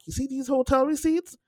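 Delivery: high, loud, fast-building sassy scolding; mock lecture from a fed-up friend who has seen it all; sassy retold rant. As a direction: lay into her like a fed-up friend. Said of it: "I was like".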